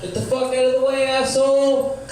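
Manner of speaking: high, loud furious yell; angry shout. Acted. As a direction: scream it at someone blocking you. Comic yells at audience, then "your turn.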